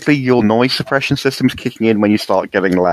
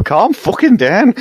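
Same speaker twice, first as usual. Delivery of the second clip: higher, slow, emphatic command; exasperated order; 10 semitones higher, 3 dB louder, slower than usual. Acted. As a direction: spell each word out to calm a friend. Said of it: "and go".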